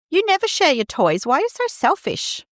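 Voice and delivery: high, exasperated mock snap; tired parent scolding a child, mock snap; snapping parent. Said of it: "we snap".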